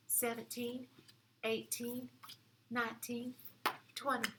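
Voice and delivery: a hint of gentle mother bear, counting for the class; lightly voiced mama bear. Shown as a demonstration. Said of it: "I'm going to use the mama bear voice".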